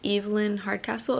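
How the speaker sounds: talking with a retainer in; slightly lispy retainer speech; wearing a retainer. Real, not acted. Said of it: "my retainer and everything".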